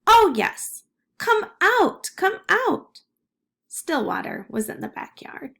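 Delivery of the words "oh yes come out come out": high, distant call, a little louder; an unseen voice beckoning from outside; faraway voice. Acted. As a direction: call from far across the yard. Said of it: "she heard the voice say".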